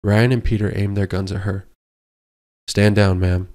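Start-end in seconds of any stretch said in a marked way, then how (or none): 2.7-3.5 terrifyingly calm. Acted. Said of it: "in a terrifyingly calm voice".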